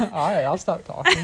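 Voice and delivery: laughing through the words; giggling as she gives up. Real, not acted. Caught partner yawning, laughs.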